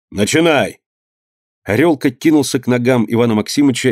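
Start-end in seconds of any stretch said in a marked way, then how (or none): 0.1-0.8 lightly voiced master. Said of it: "крикнул он на Паньку".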